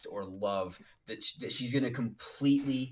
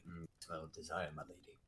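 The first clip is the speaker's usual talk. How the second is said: hammed-up cat boy; 6 semitones lower, 8 dB quieter than usual. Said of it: "she's constantly referring to his ability to smell, like".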